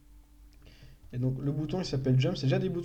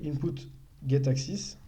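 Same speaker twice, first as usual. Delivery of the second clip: input get axis with a mock English accent; slower than usual. Shown as a demonstration. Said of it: "avec un superbe accent anglais". (avec un accent anglais exagéré)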